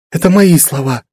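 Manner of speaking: ordinary delivery, nothing marked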